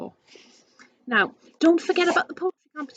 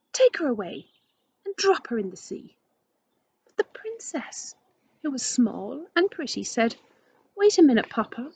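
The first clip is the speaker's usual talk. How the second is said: gentle read-aloud storytelling voice; story narration. A narrator's reading. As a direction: read it like a picture book to children.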